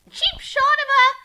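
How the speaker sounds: loud, high battle cry; shouted insult. Acted. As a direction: yell it as you strike. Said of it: "shouted insults in battle".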